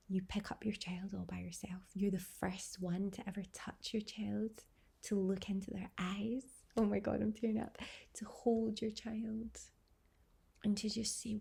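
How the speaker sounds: fighting back real tears as she remembers; close to tears. Real, not acted. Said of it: "I'm actually close to tears".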